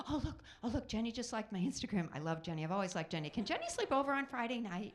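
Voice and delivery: put-on teen girl's sudden gushing turnaround; teenage girl. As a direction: flip to delighted, quick teen chatter. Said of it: "this is my impression of a teenage girl".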